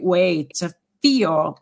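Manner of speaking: slow drawled Southern feel; Southern accent. Real, not acted. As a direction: let the Southern accent slip out. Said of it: "There's my Southern accent coming out".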